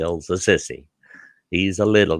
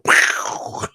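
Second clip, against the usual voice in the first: imitated bursting noise. Imitates shirt bursting from muscles.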